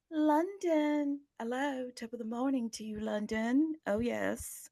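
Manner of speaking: lightly put-on British accent. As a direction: greet London with a bit of playful British. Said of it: "a little bit of a British accent".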